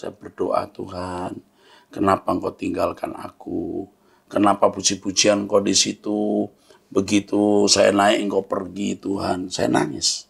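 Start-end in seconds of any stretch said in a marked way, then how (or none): 0.7-9.5 tearful prayer. Retold or imitated. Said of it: "saya nangis di kaki Tuhan".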